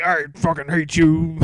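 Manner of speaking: slow, hammed-up hateful line; mocking an angry song; imitating a band's angry song; mock angry lyric. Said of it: "Then the next song's like".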